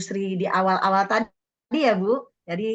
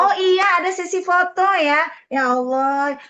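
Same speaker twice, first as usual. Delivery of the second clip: surprised; 7 semitones higher, 4 dB louder than usual. Real, not acted. Sudden realisation.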